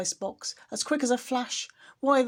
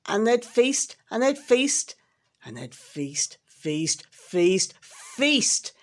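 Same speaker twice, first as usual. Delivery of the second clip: mocking repetition; 2 semitones higher, slower than usual. Mocking the Whos' feasting.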